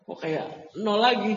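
mock-incredulous question; imitated surprise. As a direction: act out classmates taken aback, drawing it out. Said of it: "teman-temannya seangkatan dia tuh kaget".

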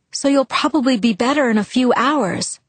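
encouraging. A narrator's reading. Girl to her sick friend on the phone, encouraging. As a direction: gently cheer on a sick friend. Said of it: "I encouraged".

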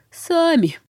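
high rasping cry of the dead man; dead man rasping a denial; hoarse corpse. A narrator's reading. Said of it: "прохрипел оживший труп".

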